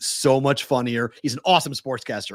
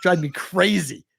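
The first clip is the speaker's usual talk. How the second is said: exasperated; 4 semitones higher, slower than usual. Real, not acted. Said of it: "I get so fucking mad".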